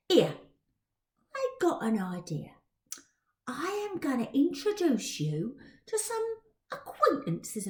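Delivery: knowing and helpful urchin; Dodger's cockney voice. Acted.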